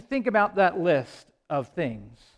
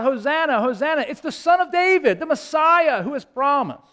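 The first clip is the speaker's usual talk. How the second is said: higher-pitched retold acclamation; mild crowd cry; 6 semitones higher than usual. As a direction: cry it out lightly as a welcoming crowd. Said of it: "the people cried out".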